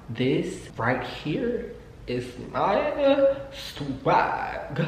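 drawn-out, very slow cocky purr; a lazy, smug flex; slow swagger. Retold or imitated. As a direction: savour each word like a brag. Bragging quote to herself.

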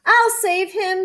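high little squirrel squeak; squeaky squirrel. A narrator's reading. Squirrel volunteering a cliff rescue, squeaking high. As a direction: pipe up high as a small animal. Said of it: "squeaked the squirrel".

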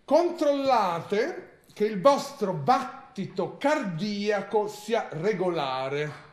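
slow, grave ritual reading; slow, solemn reading of a spell manual; solemn instruction reading. Acted. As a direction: read each step like a sacred rite. Reads a ritual manual aloud.

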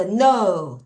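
no with a long rounded OH; silent K, OH vowel. Shown as a demonstration. Teacher models know for students, pronounced as no. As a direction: say no with no k sound, gliding oh. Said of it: "K N O W일 때 O".

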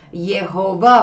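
Jehová sounded out as Ye-ho-vá; "Jehová" begun with a Y sound; Yod reading of the name. Shown as a demonstration. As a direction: say "Jehová" slowly, syllable by syllable, with a Y onset. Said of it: "la Yod no tiene sonido J".

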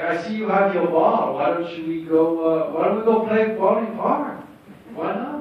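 Tommy impression. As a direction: imitate Tommy's odd accent. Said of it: "he's like".

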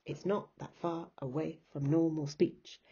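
measured beat on "not", "far", "way", "normal", "speech"; iambic rhythm. Shown as a demonstration. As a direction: keep five pulses, on "not", "far", "way", "nor" in "normal" and "speech". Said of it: "five lots of Unstressed, stressed".

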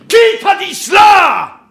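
explosive high shout; cried out. A narrator's reading. Ahab challenging Starbuck about his leg, shouting. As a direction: roar the question at full force. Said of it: "s'écria Akab".

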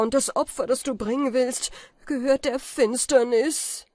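hoch und laut, beschwörend; verzweifeltes Flehen. A narrator's reading. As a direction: fleh um seine Seele. Kaspar fleht Falke an. (Kaspar beschwört Falke verzweifelt)

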